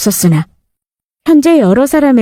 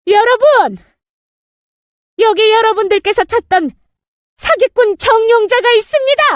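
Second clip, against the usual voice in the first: calling out to crowd; 12 semitones higher than usual. Acted.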